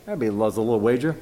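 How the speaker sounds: usual speaking voice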